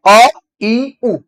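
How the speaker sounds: अ, ई, उ said as pure, separate vowels; vowel demo. Shown as a demonstration. Teacher modelling vowels अ, ई, उ for the class. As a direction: model अ, ई, उ crisply. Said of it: "ऐसे कहा".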